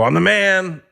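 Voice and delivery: high-pitched party declaration; mock boast. Comic retells boasting to Russians after a shot, high and excited. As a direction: announce it high, as a retold brag.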